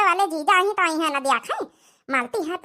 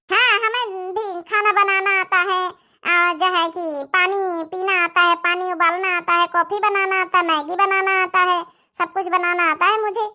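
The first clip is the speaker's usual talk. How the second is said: proud boasting; 3 semitones higher, 3 dB louder than usual. Acted. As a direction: boast about cooking skills proudly. Girl boasting of her cooking.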